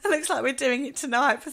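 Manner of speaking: laughing through a cheeky line; giggly innuendo; amused and teasing. Real, not acted.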